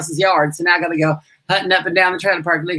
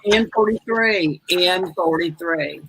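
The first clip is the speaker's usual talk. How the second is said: slow, drawn-out bingo call; much slower than usual. Acted. Bingo host calling N forty-three slowly. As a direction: stretch out the number. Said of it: "bingo calling".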